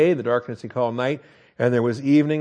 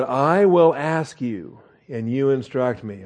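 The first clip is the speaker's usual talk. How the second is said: sanctified sarcasm; slower than usual. Acted. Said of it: "sanctified sarcasm".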